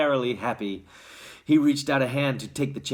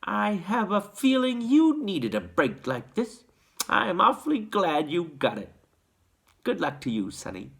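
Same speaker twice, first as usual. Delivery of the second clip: smiling; 6 semitones higher than usual. A narrator's reading. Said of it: "smiling at Charlie".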